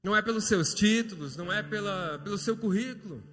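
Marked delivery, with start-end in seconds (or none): 0.0-2.2 raised, high preacher's proclamation; urgent, emphatic sermon delivery; impassioned preaching. Real, not acted. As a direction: preach it out with force, driving each phrase home. Preaches at rising force.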